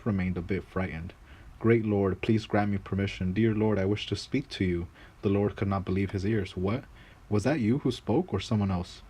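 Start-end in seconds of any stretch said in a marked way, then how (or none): 1.6-4.9 humble servant. Acted. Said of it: "that same little man spoke very clearly". 6.6-9.0 can't believe his ears; astonished lord. Acted. Lord stunned the servant speaks.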